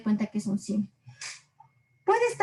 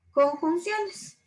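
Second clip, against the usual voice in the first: "conjunciones" drawn out slowly and higher; stressed term; 6 semitones higher, much slower than usual. Shown as a demonstration. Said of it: "estoy repitiendo conjunciones".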